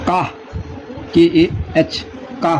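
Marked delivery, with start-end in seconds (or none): 0.1-0.2 का said as open "kah"; German letter K. Shown as a demonstration. Teacher showing learners German K, का as "kah". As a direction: say का with a long "ah". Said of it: "के का आ जाएगा".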